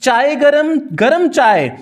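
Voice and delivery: lightly voiced chaiwala shouting his wares; tea vendor's call. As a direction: cry out the tea like a train vendor. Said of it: "क्या चिल्लाते रहते हैं".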